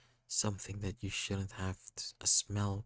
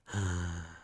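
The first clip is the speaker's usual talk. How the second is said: heavy stuttering sigh; 2 semitones lower than usual. Acted. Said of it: "a sigh, heavy and stuttering".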